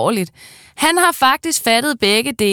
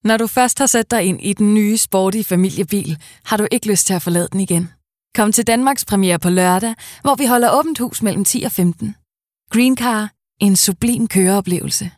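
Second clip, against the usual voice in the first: car commercial; 2 semitones higher than usual. Acted. Voice actor reading a car commercial, punchy. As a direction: sell the car with energy.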